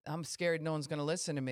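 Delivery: hammed-up timid whine, a bit fast; mock nervous, self-pitying voice; mock scared. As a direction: play the frightened one hiding behind bluster. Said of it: "and then peacock out".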